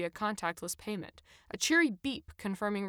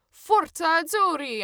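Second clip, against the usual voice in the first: loud, high, slow chant-like cheer; rallying cry; 9 semitones higher, 9 dB louder than usual. A narrator's reading. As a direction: shout it like a football fan. Narrator shouts the rallying cry.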